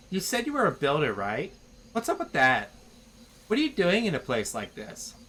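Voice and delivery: lightly voiced Valley Girl chatter; mild Valley Girl upspeak. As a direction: chat with the builder like a teen. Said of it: "speaking in this freaking accent".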